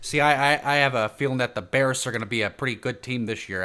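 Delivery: a hint of mock Chicago accent. Podcaster predicting a good Bears season, mock Chicago accent. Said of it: "do your best Chicago".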